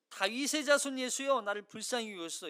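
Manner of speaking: crying out. Acted. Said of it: "맹인이 외쳐 이르되".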